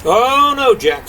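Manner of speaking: high, drawn-out "oh" of dismay; alarmed protest. Acted. Alarmed giant stops Jack.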